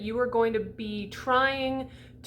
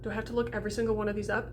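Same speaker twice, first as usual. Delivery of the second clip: heavy sigh then a rushed whine; exasperated student; 3 dB quieter, much faster than usual. Retold or imitated. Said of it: "y'all are like".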